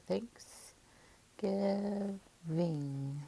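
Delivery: "thanks, giving" drawn out in separate syllables. Shown as a demonstration. Teacher showing three syllables, "thanks, giving" broken into its parts. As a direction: stretch and separate each part of "thanks, giving". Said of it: "kind of just three syllables".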